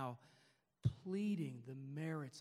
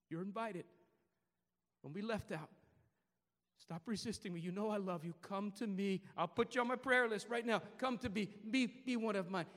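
Jesus inviting; 5 semitones higher, 10 dB louder than usual. Acted. Preacher voices Jesus inviting.

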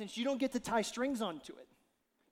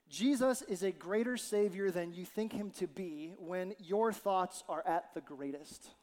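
put-on slow, measured reading of an old devotional; slower than usual. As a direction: read it slowly and reverently. Reads Spurgeon devotional aloud.

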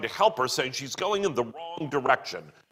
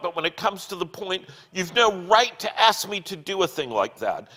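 crying out; 4 semitones higher than usual. Acted. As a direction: plead and push away in rising panic. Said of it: "suddenly cries out".

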